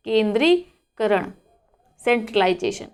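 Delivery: केंद्रीकरण drawn out slowly, syllable by syllable; slow model word. Shown as a demonstration. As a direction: stretch केंद्रीकरण out slowly for the class. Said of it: "जिस प्रकार से मैं उच्चारण कर रही हूँ".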